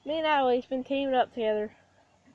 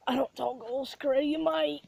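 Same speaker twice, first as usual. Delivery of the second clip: hammed-up Australian accent, lifting at the end; 3 semitones higher than usual. Shown as a demonstration. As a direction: slip into a broad Australian accent. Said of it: "addiction I have to talk British and Australia".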